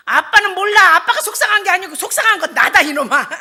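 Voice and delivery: loud, high comic outburst; mock-furious scolding of her son; exasperated retort. Mother sets her son straight about who is upset, exasperated. Snaps back at son's sympathy.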